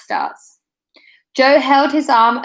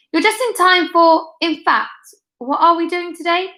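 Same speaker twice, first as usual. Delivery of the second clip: higher, nervy fake-cheerful; flustered Mister Brooks; 7 semitones higher than usual. A narrator's reading. Headmaster to Joe: higher, nervy fake-cheerful fluster. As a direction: gush with a nervous smile. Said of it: "with a forced smile".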